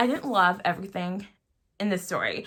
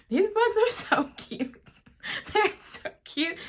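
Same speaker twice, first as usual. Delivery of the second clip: much higher, slowed, breathy-laughing gush; squealing at cuteness; 10 semitones higher than usual. Real, not acted. Reviewer gushing to viewers about cute alien comics, high squeal. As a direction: coo over something adorable.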